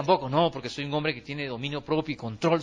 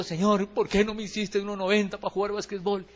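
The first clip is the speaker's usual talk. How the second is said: mock plaintive prayer; 3 semitones higher than usual. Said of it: "Y digo".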